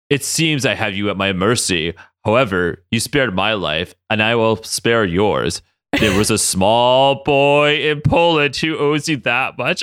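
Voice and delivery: low, slow, stately villain; hammed-up grand speech, delivered deliberately; Magneto.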